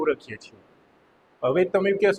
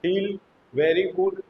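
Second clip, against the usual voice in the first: slow spelled-out mnemonic; slower than usual. Shown as a demonstration. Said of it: "એના પછી જોઈએ તો શું થાય છે?".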